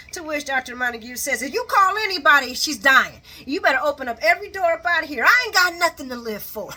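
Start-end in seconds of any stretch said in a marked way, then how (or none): 1.4-6.7 loud, urgent mock threat; retold threat. Doctor threatening the nurse over calling security, forceful mock threat. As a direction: act out a desperate warning, loudly.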